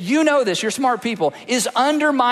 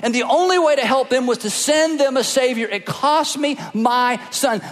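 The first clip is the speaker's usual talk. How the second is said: voice of God. Acted. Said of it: "our Heavenly Father says".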